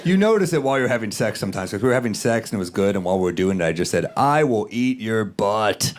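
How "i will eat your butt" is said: slow, deliberate retold vow; slow declaration. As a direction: spell it out word by word, slowly. Retold blurt during sex.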